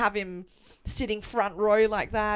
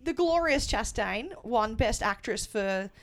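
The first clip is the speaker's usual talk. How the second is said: mock grand announcer; 7 semitones higher, slower than usual. Real, not acted.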